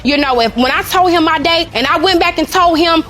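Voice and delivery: loud, aggrieved defence; heated complaint. Real, not acted. Arguing her case in court.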